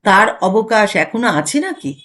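slow, sly sarcastic aside; a crooked smile in the words; wry smirk. Acted. Husband needling wife with a sarcastic quip, wry. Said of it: "বঙ্কিম হাসি ... উচ্চারিত হয়".

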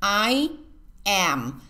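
"am" ending with the lips pressed shut on the m; lips closed on m. Shown as a demonstration. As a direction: close the mouth fully on the final m of "am". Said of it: "hay que cerrar la boca".

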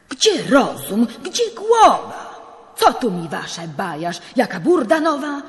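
the priest berating the judge in alarm; scolding outburst. Acted. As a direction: scold him like a fed-up priest.

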